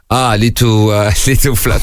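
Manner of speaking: mock French accent. Joker admiring the table flower to cheer mourners, French accent. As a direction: put on a playful French accent. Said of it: "I was in France".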